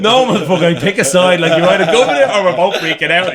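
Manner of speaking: high, loud frantic yelling; mock girlfriend losing it, shrieking; panicked shout. Girlfriend snapping at him mid-panic.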